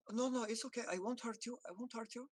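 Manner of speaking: high gentle coo fading to a hush; coaxing soft voice. Acted. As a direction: reassure a scared cat tenderly. Coaxing a skittish cat.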